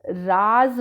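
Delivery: राज with a z, slow; राज with nukta, z sound. Shown as a demonstration. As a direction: say राज as raaz, slow and clear. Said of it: "पहली पंक्ति में लिखे शब्द".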